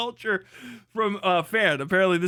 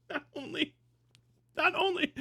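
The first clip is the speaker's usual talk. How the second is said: mocking high voice; 9 semitones higher, 7 dB quieter than usual. High soft quoting from search.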